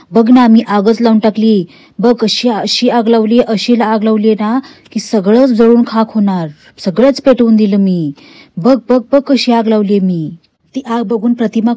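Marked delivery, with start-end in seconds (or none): 0.1-1.7 louder, gloating push on मी; gloating taunt. Retold or imitated. Nagraj taunts frightened Pratima, louder gloating boast. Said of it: "Nagraj जास्त बोलायला लागतो". 2.0-10.4 slow, drawn-out mild menace; slow gloating taunt. Retold or imitated. Nagraj frightens Pratima with the fire, slow gloating taunt. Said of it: "Nagraj जास्त बोलायला लागतो".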